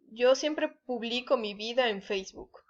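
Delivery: "publico" stressed on BLI; stress on middle syllable. Shown as a demonstration. Teacher giving unaccented example, "pu-BLI-co" stressed mid-word. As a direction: put the weight on BLI in "publico". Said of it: "no lleva acento".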